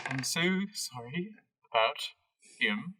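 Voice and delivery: exasperated, halting apology, lightly acted; sighing apology. Harold apologising for his brother, sighing exasperation. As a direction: apologise with long weary pauses. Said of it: "Harold sighs and he goes".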